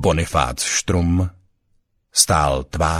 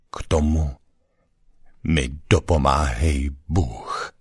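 solemn formula. A narrator's reading. Ghostly double recites the town's oath to Štrum, solemn. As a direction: recite it solemnly with a long pause. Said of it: "pravil jeho hlasem slavnostní formuly".

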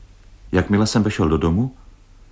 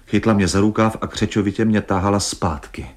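ordinary delivery, nothing marked

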